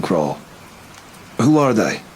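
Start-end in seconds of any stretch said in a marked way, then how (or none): 1.4-2.0 a sudden sharp question; sharp blurt. Acted. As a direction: blurt it out sharper than meant. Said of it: "I blurted, my voice sharper than I intended".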